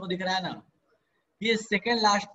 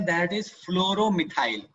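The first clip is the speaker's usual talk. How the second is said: slow dictation; much slower than usual. Shown as a demonstration. Teacher dictates name slowly.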